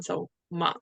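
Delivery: ma falling sharply, fourth tone. Shown as a demonstration. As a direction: drop ma hard. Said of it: "And then the fourth one is, uh, it goes down".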